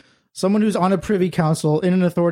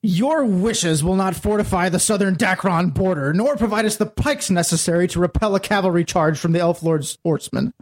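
stern general. Acted. General rebuking a peace-loving ruler, commanding. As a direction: speak like a commander who takes no guff. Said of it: "That character is a general of some sort".

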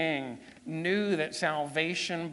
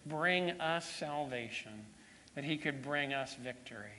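closing prayer. Real, not acted. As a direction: lead a congregation in reverent prayer.

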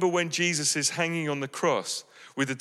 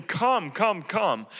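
lifted, pleading call of come come come; a heartfelt open invitation; urging invitation; 4 semitones higher, much slower than usual. Real, not acted. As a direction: call people in, openly. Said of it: "And I'm saying".

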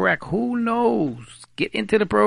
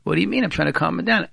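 defensive husband; 4 dB louder, faster than usual. Retold or imitated. Acted husband defends himself.

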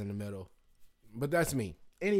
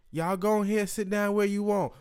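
high, raised-voice Southern hostess imitation; put-on Southern waitress accent, pitched up; 8 semitones higher, 4 dB louder than usual. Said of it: "everybody talks like that".

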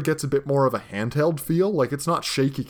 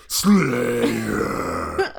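vampire voice; 3 semitones lower than usual. Retold or imitated. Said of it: "has a vamp voice".

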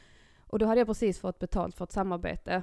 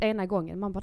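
ordinary talk

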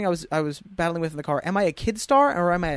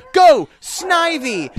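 high, drawn-out battle shout; loud imitated anime command; trainer's call; 12 semitones higher, 8 dB louder, much slower than usual. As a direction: shout it like summoning a creature. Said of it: "somebody, uh, goes".

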